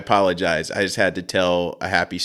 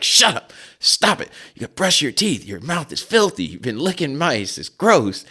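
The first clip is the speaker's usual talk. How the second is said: put-on high scolding kid voice; 7 semitones higher than usual. Kids scolding the dog.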